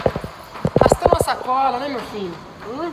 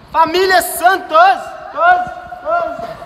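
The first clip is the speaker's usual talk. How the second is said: empty warehouse echo; 4 semitones higher, slower than usual. Real, not acted. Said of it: "Olha o eco aqui, ó".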